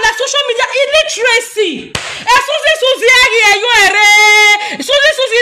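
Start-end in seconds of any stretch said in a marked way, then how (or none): 2.0-5.4 mock wail. Mock wailing to Suzy.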